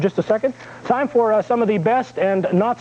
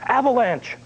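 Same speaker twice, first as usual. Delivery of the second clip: higher-pitched mock warning cry; convict's half-hearted yell in a joke; 4 semitones higher, slower than usual. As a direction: call out a pretend alarm without real volume. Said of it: "the sentenced man yells".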